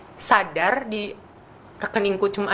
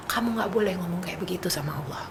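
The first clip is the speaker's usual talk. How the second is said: a soft whisper, no voice at all; whispered warning; 7 dB quieter than usual. Retold or imitated. Mother to crying daughter, whispered stern warning. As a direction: hush her firmly under your breath.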